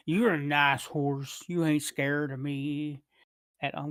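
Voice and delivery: slow, simple drawl as Shakespeare; Forrest Gump voice. Acted. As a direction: play him slow and simple-minded. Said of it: "Why am I talking as the".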